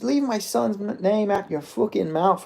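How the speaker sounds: hammed-up Irish trash talk, slow and cocky; mock Ian Garry. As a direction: puff up like a fighter copying McGregor. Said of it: "try and talk like McGregor".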